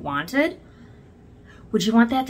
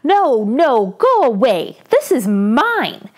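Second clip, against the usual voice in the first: yelling; 2 semitones higher, 7 dB louder, slower than usual. Acted. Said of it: "Mister Fatso yelled".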